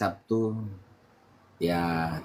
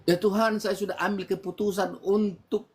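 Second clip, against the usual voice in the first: retold prayer; 4 semitones higher than usual. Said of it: "saya berdoa".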